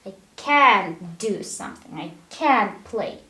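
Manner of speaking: "can't" weighted in each short sentence; stress on CAN'T. Shown as a demonstration. Teacher showing how the person understands it's negative, stress on "can't". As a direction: make each "can't" the strongest word. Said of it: "So we stress this modal verb".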